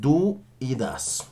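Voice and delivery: slow model. Shown as a demonstration. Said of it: "utilizando estos auxiliares".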